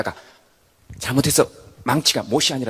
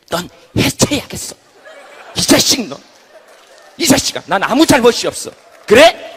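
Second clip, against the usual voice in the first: loud, higher, belligerent denial; defiant yelling; 7 semitones higher, 11 dB louder than usual. Acted. Head denies fault to right hand, loud defiant. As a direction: shout the blame away.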